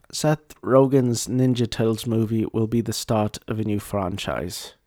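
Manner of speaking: put-on botched British accent drifting towards German; German-sounding British accent. Host reading out the article headline in a botched British accent that sounds German. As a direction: attempt British and land near German. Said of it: "I, I sounded German".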